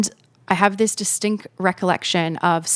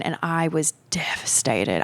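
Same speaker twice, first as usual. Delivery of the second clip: whispered, barely voiced confession; hushed; 3 dB quieter than usual. Real, not acted. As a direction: let it drop to a whisper as the heartbreak returns. Recalling leaving Byron heartbroken.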